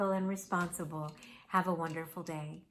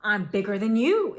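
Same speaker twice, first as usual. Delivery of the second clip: indignant little monster; 2 semitones higher, 9 dB louder than usual. Acted. Monster retorts.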